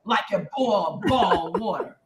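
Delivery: Southern teacher. Retold or imitated. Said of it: "she's an English teacher".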